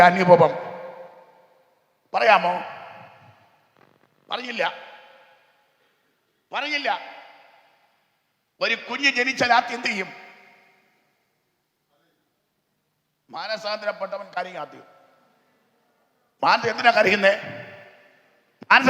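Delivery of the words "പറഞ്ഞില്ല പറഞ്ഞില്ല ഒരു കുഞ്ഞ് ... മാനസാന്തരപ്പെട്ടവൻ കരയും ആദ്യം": hushed preaching. Acted. Preacher drops voice to audience.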